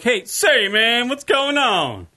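hamming up a Jamaican greeting, slowly drawn out; mock Jamaican accent. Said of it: "when I do the impression of".

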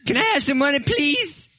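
mock begging.

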